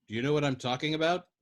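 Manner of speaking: fast, sharp question. Acted. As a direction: snap the question quickly. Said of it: "Yossarian asked sharply".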